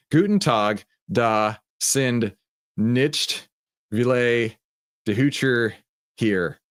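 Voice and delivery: German read slowly in a Texan accent. Shown as a demonstration. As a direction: sound out the German like a Texan, word by word. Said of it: "read it in my Texan accent".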